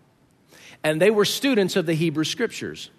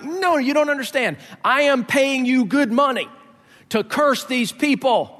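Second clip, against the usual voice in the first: indignant king; 7 semitones higher than usual. Retold or imitated. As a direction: spell it out to the prophet like he's dense. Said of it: "He's like".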